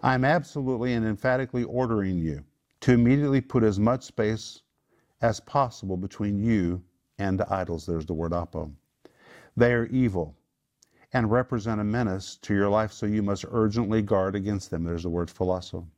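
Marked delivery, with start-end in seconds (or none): 0.0-7.9 insistent, stressed instruction; emphatic order. Acted. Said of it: "That's how emphatic it is in the Greek". 9.6-14.8 firm, urgent warning; emphatic warning. Acted. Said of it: "That's how emphatic it is in the Greek".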